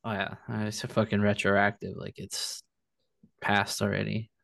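words around a sip of wine; while sipping a drink. Real, not acted. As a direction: talk between sips of wine. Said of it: "I'm drinking wine".

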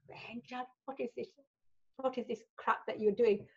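mock telling-off in Indian accent, swelling to outrage; mum's Indian accent. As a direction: imitate an appalled mum with an Indian accent. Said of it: "I keep putting this Indian accent on".

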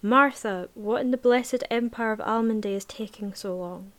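loud slurring call across the room; drunken Giselle voice. Acted. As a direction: call out like a tipsy princess. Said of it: "call in my drunken Giselle voice".

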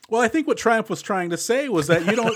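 a hammed-up Borscht Belt insult comic; Triumph impression. Co-host jokes about the movie mobsters in a Borscht Belt insult comic voice. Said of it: "I'm a Borscht Belt comedian".

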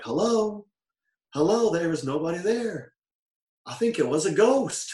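Bone Crusher Teddy. Retold or imitated. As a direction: mimic a baffled big guy, voice lifted high. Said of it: "I was like".

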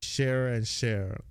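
"share and share" with identical sh starts; chair and share merged. Shown as a demonstration. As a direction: say both words as "share", no ch. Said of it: "I pronounce it the same way".

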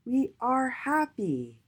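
high, slow, drawn-out cheer. A narrator's reading. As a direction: cheer it together, stretching every word. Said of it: "All the letters ... cheered".

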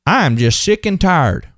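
slow country twang. Acted. Preacher acting out a common complaint, in a country voice. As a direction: say it in a drawn-out country accent. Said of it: "a country voice".

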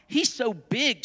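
high, sing-song storybook hen; lightly voiced hen with a swooping lilt; squawking hen. A narrator's reading. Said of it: "squawked the hen".

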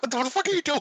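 high incredulous mock outburst; exasperated reaction. Reviewer mimicking his own reaction to the crying girl, high exasperated. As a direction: sound baffled and fed up. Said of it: "I was like".

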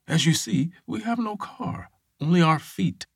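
high, indignant quirky voice; Ray Bradbury voice. Retold or imitated. Ray argues with the officer.

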